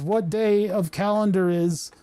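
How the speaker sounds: bewildered boomer who thinks it is 1984; lightly voiced boomer, slow and confused; boomer humor man. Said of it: "Boomer humor man says".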